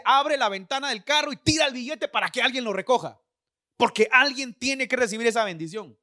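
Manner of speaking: God. Retold or imitated. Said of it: "oye la voz de Dios le dice".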